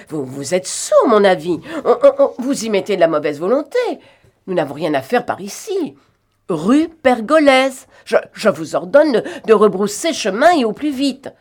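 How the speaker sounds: losing his temper at a silent driver; irate shouted orders; angry scolding. A narrator's reading. Ignored passenger scolding the driver.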